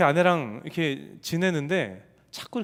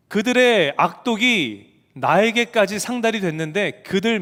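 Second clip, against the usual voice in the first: God commanding; 2 semitones higher, 4 dB louder than usual. Acted. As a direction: order Jonah with weight. God commissions Jonah.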